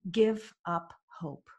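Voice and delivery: slow, spaced-out verdict; grave pronouncement. Retold or imitated. Coach answering irritated client, slow and deliberate. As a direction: lay down each word slowly and deliberately.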